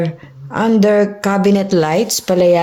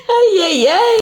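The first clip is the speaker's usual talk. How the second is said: high laughing cries; half laugh, half cry; 12 semitones higher than usual. Real, not acted. Laughing fit while filming.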